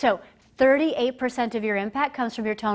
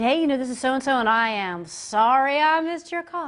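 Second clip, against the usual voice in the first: higher, bubbly mock voicemail greeting; Disney World cheerful; 4 semitones higher, 3 dB louder than usual. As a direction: imitate an inappropriately upbeat apology. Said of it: "you can't sound like you're at Disney World".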